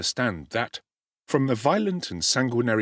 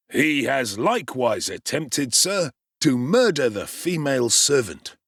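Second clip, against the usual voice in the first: shaken beadle; 3 semitones higher, 3 dB louder than usual. Acted. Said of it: "with a face of ashy paleness".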